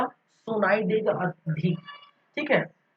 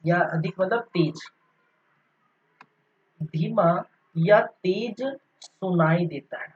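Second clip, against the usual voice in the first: dictating notes. Shown as a demonstration. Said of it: "इसको हम क्या लिख सकते हैं".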